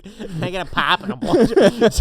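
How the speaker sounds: put-on high, loud Minnesota accent, laughing; mock Minnesota accent. Friend mocking the girl with a Minnesota accent. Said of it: "She was like".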